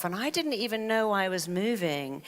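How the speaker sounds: ordinary talk, nothing marked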